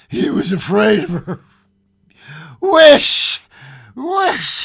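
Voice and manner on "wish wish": high, loud command; strong cry. A narrator's reading. Wife commanding husband to wish, strong loud cry. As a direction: order it forcefully. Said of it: "she cried in a strong voice".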